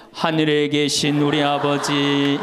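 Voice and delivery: slow, solemn prayer intoning; prayer recitation. Retold or imitated. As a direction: intone it like the start of a group prayer. Someone grabs mic, starts prayer.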